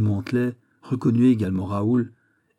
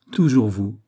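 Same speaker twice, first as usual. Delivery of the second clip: louder, fond exclamation; affectionate exclamation; 5 dB louder than usual. A narrator's reading. Athos praises his friend Porthos, exclaiming. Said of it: "s'écria Athos".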